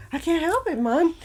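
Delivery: high-pitched mock Jamaican accent. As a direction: plead in a put-on Jamaican accent. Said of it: "you woke up and you were like".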